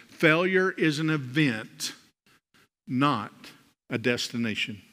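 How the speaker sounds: slow emphasis. Shown as a demonstration. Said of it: "I want you to see".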